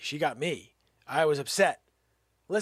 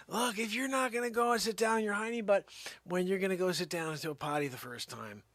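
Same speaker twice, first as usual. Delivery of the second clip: scolding dad; 3 semitones higher, faster than usual. Retold or imitated. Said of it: "that's what I've called it always to the kids".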